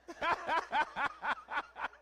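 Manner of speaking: loud, high giggling laugh; real amused cackle; high cackling laugh. Real, not acted. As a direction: laugh at your own cheek. Laughs at own flirting.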